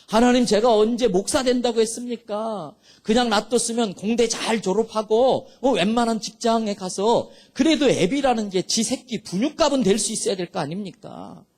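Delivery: retold protest, firing indignant questions at God; defiant prayer. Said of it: "막 대들면서 따지면서 기도했어요".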